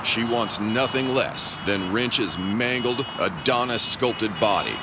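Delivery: hammed-up pulp narrator; dramatic narration. Narrator describing the villain's charging Cadillac, pulpy dramatic narration. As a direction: paint the showdown like a cheesy thriller.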